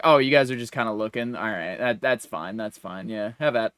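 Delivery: low, soft, easygoing clerk; very chill. Retold or imitated. First clerk tells browsing customers that's fine, very chill. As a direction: imitate a laid-back guy letting it go, voice dropping away. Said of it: "he was very chill about".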